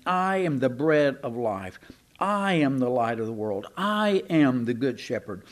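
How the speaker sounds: each "I" stressed and held, then falling; "I" stretched out as a firm declaration; emphatic. Retold or imitated. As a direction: lean on "I" at the start of each statement. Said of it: "He's being emphatic here".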